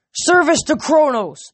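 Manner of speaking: high, loud and slow roar; titan's roar. A narrator's reading. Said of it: "the Titan roared".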